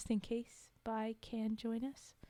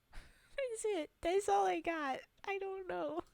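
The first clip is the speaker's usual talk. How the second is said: embarrassed laugh; 9 semitones higher, slower than usual. Real, not acted. Embarrassed after Mario voice.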